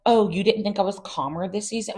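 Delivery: snippy retort. Retold or imitated. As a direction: throw the question back with bite. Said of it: "she didn't say it like that".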